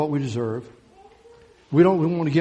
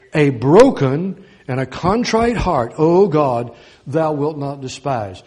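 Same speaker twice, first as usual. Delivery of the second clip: slow, louder scripture reading; slow fervent reading; 5 dB louder, slower than usual. Acted. Preacher reading the psalm to his church, slow and louder. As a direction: weigh each word, slow and full. Preacher reads verse seventeen.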